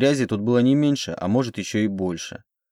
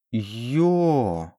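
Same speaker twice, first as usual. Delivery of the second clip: короткий сдавленный стон «Ё»; простони «Ё» от отвращения; 2 semitones higher than usual. A narrator's reading. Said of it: "простонала я". (стон отвращения «Ё»)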